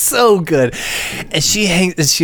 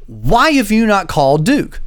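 exasperated demand; 6 semitones higher than usual. Retold or imitated. Retold argument with leasing office.

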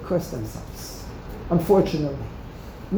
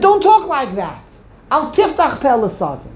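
stern rebuke; 3 semitones higher, 4 dB louder than usual. Retold or imitated. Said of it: "He said".

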